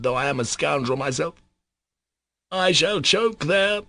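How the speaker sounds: rising, heated plea of a troubled man; impassioned Mitya. Acted. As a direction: pour out his anguish, voice climbing.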